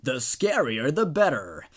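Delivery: a hint of a salesy ad pitch; lightly hammed-up ad read inside a story; story narration. A narrator's reading. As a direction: read the creepy company's pitch with mild ad flair. Reads ad-style creepy story.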